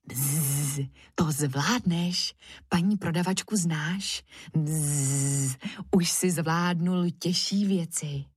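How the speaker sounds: put-on a friendly fly buzzing courage into a boy; fly Důvěra buzzing encouragement. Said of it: "zabzučela".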